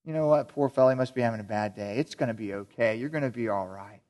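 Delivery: mock-soothing a friend; gracious reassurance. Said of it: "the grace people... they say".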